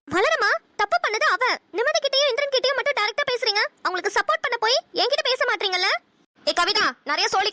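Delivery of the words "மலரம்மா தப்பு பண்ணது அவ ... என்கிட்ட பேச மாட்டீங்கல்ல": whiny complaint. Acted. Complaining to mother-in-law.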